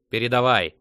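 very loud, impatient shout; fierce bark. A narrator's reading. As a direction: bark the order ferociously. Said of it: "свирепо рявкнул Сет".

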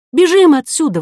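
high, loud panicked yell to flee; urgent cry. A narrator's reading. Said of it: "возопила Ко". (отчаянный вопль)

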